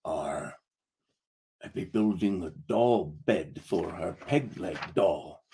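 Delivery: soft, low sheepish pirate confession; gruff pirate admits it softly; said very quietly. Acted. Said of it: "he said very quietly".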